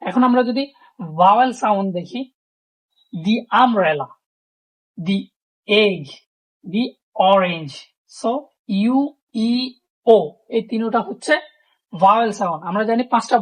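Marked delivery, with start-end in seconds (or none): 3.1-7.7 "the" said "thee" before each vowel noun; long "thee" gliding into umbrella, egg, orange. Shown as a demonstration. Teacher showing "the" before vowel sounds. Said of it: "তখন আমরা দি বসাইছি".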